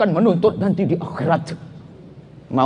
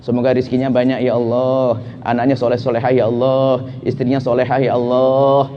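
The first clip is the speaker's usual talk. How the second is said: prayer; 6 semitones lower than usual. Shown as a demonstration. Preacher models a prayer.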